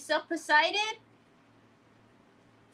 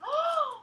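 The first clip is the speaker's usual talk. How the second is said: a sudden high gasp; surprised gasp; 12 semitones higher than usual. Real, not acted. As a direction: gasp in delight at the find. Surprised at the new item.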